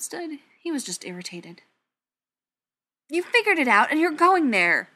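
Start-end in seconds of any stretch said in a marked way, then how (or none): 3.1-4.9 loud, high burst of realization; rising realization. A narrator's reading. Ryan realizing Brendan is leaving, voice rising excitedly. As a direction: exclaim it as it dawns on you. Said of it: "his voice rising as he came to the realization".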